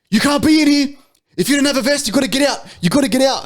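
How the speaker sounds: high-pitched mock yelling; frantic worker ordering someone out, hammed up; imitated screaming. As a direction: imitate a panicky shout across a warehouse. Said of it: "he's, like, screaming at me".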